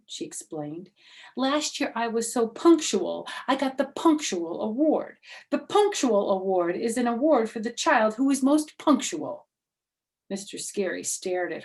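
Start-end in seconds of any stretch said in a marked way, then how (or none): 1.4-9.5 high, loud boastful schoolgirl; bragging girl. Acted. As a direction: brag about the award. May brags.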